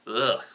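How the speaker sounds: short throaty "ugh" of disgust; disgusted groan. Real, not acted. Reacting to Suicide Squad as an Oscar winner, disgusted groan. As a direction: groan as if tasting something rancid. Disgust at saying the film's title.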